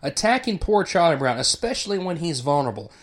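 emotional outburst. Retold or imitated. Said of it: "He reacts out of emotion and says".

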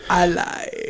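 shouted from far off; shouted I lied. Retold or imitated. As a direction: yell it out, hamming it up. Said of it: "George says he likes it when Amanda says".

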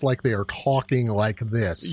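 slow, laboured English attempt at an American accent; overcareful mock-American accent; English actor's bad American. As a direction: imitate an English person straining at American. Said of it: "English person tries to do an American accent".

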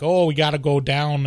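lighter mock Chicago accent. Host shows what Chicago sounds like, Chicago accent. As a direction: demonstrate a broad Chicago accent. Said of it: "What's a Chicago accent sound like?".

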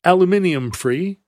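"aluminium" said the British way, al-yoo-MIN-ee-um; British pronunciation. Retold or imitated. Reading an ad as friends in England would, British pronunciation of "aluminium". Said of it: "as our friends in England would say".

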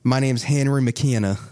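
a hint of storekeeper character; Henry McKenna. Game master reintroduces the renamed shopkeeper, lightly in character. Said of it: "I want it to be Henry McKenna".

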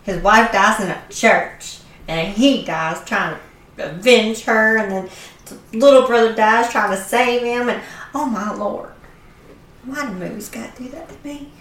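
tearful retelling, voice swelling then dropping; teary. Real, not acted. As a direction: pour out real upset over the movie. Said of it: "Your accent comes up more when you're crying".

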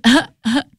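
short, halting "uh" noises; mock tongue-tied grunts. Woman mimics her speechless date, tongue-tied grunts. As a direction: imitate someone with nothing to say. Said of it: "Todo era de que".

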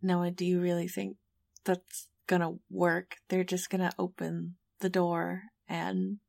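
mildly exasperated, subdued; groaning. Acted. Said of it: "sort of groan and say".

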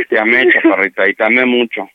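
low, heavy declaration of lost love; resigned farewell. Real, not acted. Man tells his partner he loved her, resigned and low. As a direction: drop low as if giving up.

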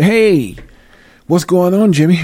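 high, put-on voice of an official; lightly voiced bigwig greeting a friend; a hint of a good-old-boy politician; mock official.

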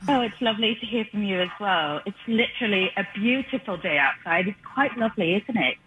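put-on British accent. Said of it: "lost all of our British listeners".

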